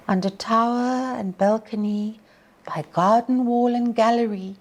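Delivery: storyteller's poem voice; poem recitation. Acted. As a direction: read it like a ballad to the class. Teacher recites Tennyson poem to class.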